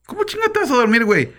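mock disbelief at his friend; incredulous question. (pregunta incrédula, mucho más aguda)

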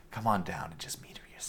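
fast hushed whisper. Acted. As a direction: whisper it conspiratorially. GM whispers invitation as NPC.

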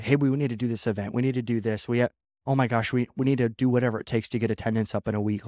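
rushed, pushy imitation of a panicking boss; frantic reactive leader. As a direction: rattle it off like a leader in a frenzy. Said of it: "somebody who's polarizing all the time".

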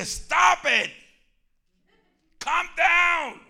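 high, loud command to a hyper puppy; scolding the dog. Retold or imitated. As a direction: bark it at the dog. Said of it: "Yo digo".

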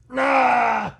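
high, loud mess-alarm wail; Chewbacca. Retold or imitated. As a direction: wail like a botched Wookiee impersonation. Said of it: "that's the noise you're gonna hear".

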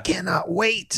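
high, slow, drawn-out fake eagerness; feigned excitement. Son pretending to welcome an extra passenger, falsely eager. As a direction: stretch it out in a mock-delighted high voice. Sarcastic eager reply to mom.

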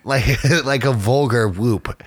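slow, laughing through the words "vulgar Whoop"; laughing retry. Shown as a demonstration. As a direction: giggle while fixing the phrase "like a vulgar Whoop". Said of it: "I didn't say that right".

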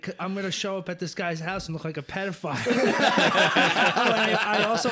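laughing. Retold or imitated. Self-quote, laughing.

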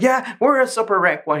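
high mocking voice; lightly voiced snide demon. Mimicking demon at meeting.

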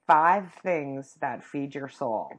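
slow and loud, spelling out the assignment; mock-stern teacher instruction. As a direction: command the class, word by word. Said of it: "I'm turning into teacher here".

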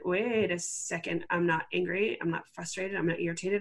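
dawning realization. Retold or imitated. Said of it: "I paused and I realized".

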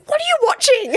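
high, laughing disbelief; incredulous. Retold or imitated. Retelling her own shocked reaction to a review, high and laughing.

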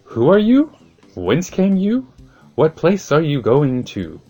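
high, loud startled demands; startled questions. Acted. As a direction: jolt up in alarm and call out. Ferryman questions the mysterious visitors.

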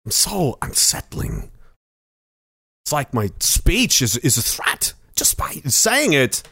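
a slow, creepy celebrity impression with odd pauses; Christopher Walken. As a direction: sound eerily unsettling, pausing oddly mid-phrase. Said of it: "Christopher Walken's always there".

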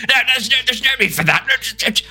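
high, quick fussy inventor calming a patient; fussy tinkerer. Acted. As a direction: reassure in a high squeaky scientist voice. NPC voice held, high.

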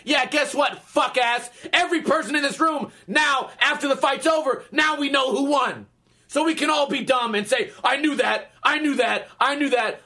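mildly heated, mocking telling-off; acted-out argument with a sore loser; exasperated retort. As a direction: pitch up a little, fed up and scornful.

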